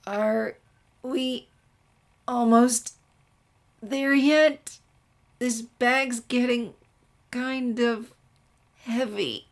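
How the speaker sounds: high, slow, tired whining; whiny complaint. Acted. Twilight whines to Sunset about the heavy bag. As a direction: complain like a tired kid on the stairs. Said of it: "came the groan".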